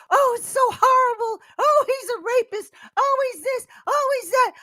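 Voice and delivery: high, loud, whiny fake shock; prissy mock outrage. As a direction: clutch your pearls and wail each oh. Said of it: "they act prissy and like".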